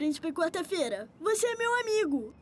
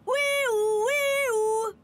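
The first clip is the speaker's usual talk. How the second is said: siren imitation; 3 semitones higher than usual. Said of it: "Você faz comigo".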